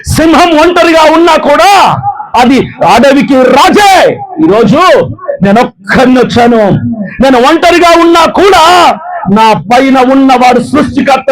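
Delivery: rally the crowd, voice soaring; fiery preaching. Acted. Preacher rousing Christians to stand together, fiery preaching.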